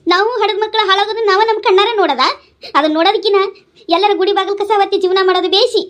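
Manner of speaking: mother lamenting through tears; weepy, despairing complaint; tearful. Acted. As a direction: plead as if about to break down. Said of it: "ನೀ ಅಳ್ಬ್ಯಾಡ್ ಬೇ".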